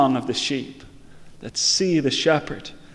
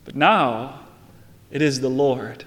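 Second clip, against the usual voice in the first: reciting a hymn; 2 semitones higher than usual. Acted. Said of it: "It goes like this".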